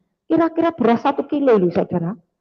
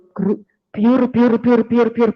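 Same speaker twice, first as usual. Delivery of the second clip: lightly voiced splashing sound; gushing water noise. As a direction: mimic a hose spraying, biur biur. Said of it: "kayak orang nyiram taman". (tiruan suara air menyembur)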